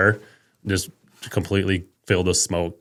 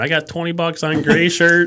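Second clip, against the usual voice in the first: high, loud, drawn-out call with a laugh; hollering a bet; 9 semitones higher, 5 dB louder than usual. Retold or imitated. Bartender calling a bet on the arm wrestlers, hollering. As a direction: holler it like a bettor across a bar. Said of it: "like, hollering".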